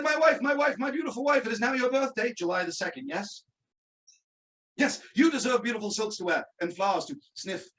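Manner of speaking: hammed-up British wizard husband; quasi-British dialect. Wizard addressing wife on birthday, quasi-British. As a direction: put on mock British for a devoted husband. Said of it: "he had a quasi-British dialect".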